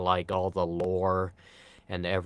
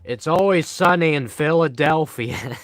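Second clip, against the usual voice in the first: show title quote; 8 semitones higher, 8 dB louder than usual. Pretend.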